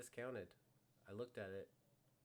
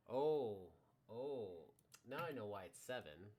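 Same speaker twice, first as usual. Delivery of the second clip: surprised realisation; 2 semitones higher, 13 dB louder than usual. Real, not acted. Sudden realisation while drafting.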